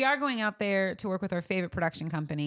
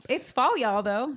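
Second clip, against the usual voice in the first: louder, higher cheerful call; excited announcement; 5 semitones higher, 4 dB louder, slower than usual. Pretend. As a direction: announce the season with glee. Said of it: "That's what I'm gonna say".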